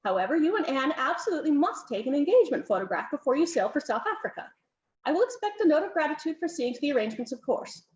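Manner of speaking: brisk hostess hurrying guests in, mildly voiced; fussy countess.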